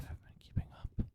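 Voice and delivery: hushed teasing whisper; mock whisper. Teasing the cohost in a hushed whisper. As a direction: breathe it out as a sly dig.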